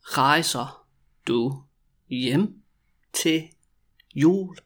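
drawn-out question with gaps between words; very slow, word by word. Shown as a demonstration. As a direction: dictate each word separately. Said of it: "when I say it really slowly".

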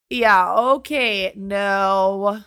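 slow, loud, drawn-out refusal; dismissive retort. Retold or imitated. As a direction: stretch each word into a mock brush-off. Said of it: "I'm like".

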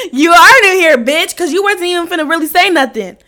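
high, loud jeering outburst; loud mock taunt. Storyteller replaying her taunt at a cowed driver, loud mocking. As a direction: belt out the taunt, then rattle on heated. Acted taunt, louder second take.

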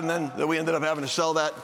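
ordinary talk, nothing marked

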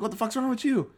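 high-pitched mock bewilderment; bewildered outburst. Dummy asks his waxed friend, bewildered outburst.

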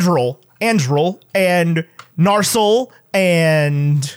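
Andril and Narsil with the stress put on the wrong syllables, drawn out slowly; slow mock mispronounced Elvish names. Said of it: "putting emphasis on the wrong words".

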